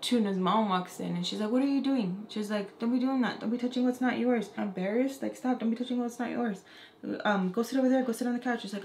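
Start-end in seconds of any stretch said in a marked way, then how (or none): 1.5-2.3 a hint of a scolding mother, higher pitch; scolding mom. Mom catches her child misbehaving, lightly scolding. 2.8-4.5 lightly voiced stern mother, pitched up; scolding mom. Mom tells daughter off for touching things, lightly scolding. 5.3-8.6 lightly voiced stern mother, pitched up; scolding mom. Mom tells daughter off for touching things, lightly scolding.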